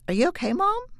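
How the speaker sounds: lightly voiced little girl, concerned; young daughter's voice.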